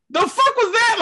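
high baffled exclaim; genuinely baffled; shocked. Retold or imitated. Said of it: "I'm like".

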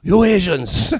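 high-pitched mock Asian accent. Host replays the attacker's line for laughs, mock Asian accent. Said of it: "he said it in a racist accent".

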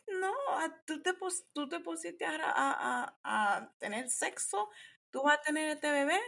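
hammed-up angry Latina mom. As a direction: imitate an outraged mom laying down the law. Mom yelling in retold story.

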